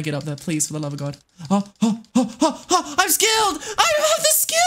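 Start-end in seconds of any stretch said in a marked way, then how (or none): 1.5-4.6 rising high gleeful shout; real gleeful cry; excited cheer. Real, not acted. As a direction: whoop at your own success. Excited success in game.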